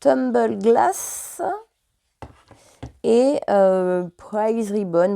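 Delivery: English color names in a French accent; halting English with a French accent. Real, not acted. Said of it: "foutez-vous de moi et de mon accent anglais".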